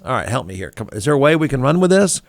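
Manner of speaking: lightly voiced boss pleading with his team; a hint of a nervous boss asking for help; imitating the boss. Boss asks the team for help, lightly imitated. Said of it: "The boss says".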